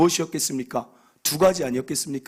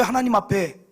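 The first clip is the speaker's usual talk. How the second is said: usual speaking voice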